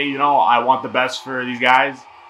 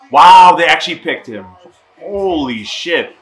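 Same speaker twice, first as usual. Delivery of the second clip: surprised; 2 semitones higher, 8 dB louder, slower than usual. Real, not acted. Surprise pick reaction.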